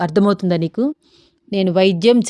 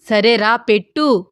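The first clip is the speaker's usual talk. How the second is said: irritated; slower than usual. Acted. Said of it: "అన్నాడు రామ్ చిరాకుగా".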